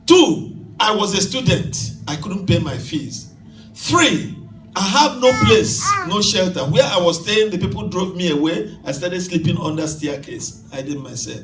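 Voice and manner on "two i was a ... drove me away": preached list of hardships. Retold or imitated. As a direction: hammer each numbered point. Voicing the young man's hardships.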